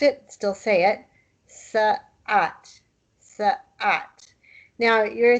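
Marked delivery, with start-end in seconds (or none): 1.5-4.3 Sa'at with a catch in the throat before the a; with the ain. Shown as a demonstration. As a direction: glottal stop in the middle of Sa'at. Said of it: "if you don't say it, the word doesn't sound quite right".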